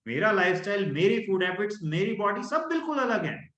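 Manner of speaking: bold rhetorical question; confident questioning. Shown as a demonstration. Coach demonstrating empowered self-talk, confident. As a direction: sure of yourself, brushing it off. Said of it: "अब आपने बदल दिया".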